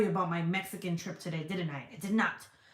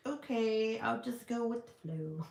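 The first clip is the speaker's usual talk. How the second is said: playful put-on voice; 2 semitones higher, 3 dB quieter than usual. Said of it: "this voice just comes out".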